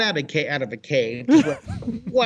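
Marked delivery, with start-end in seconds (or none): 1.5-2.2 tag. Retold or imitated. Acts out dolphin speeding off.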